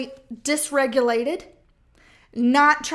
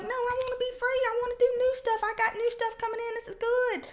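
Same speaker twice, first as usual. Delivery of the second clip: much higher, pleading to be free; eager crab; 10 semitones higher than usual. Pretend. The crab trying to escape the bucket, high and pleading. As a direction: squeak it out like the one crab trying to climb. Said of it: "You like".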